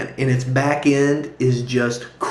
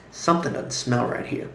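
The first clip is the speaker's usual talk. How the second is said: whispered thought; 7 dB quieter than usual. Retold or imitated. Private suspicious thought.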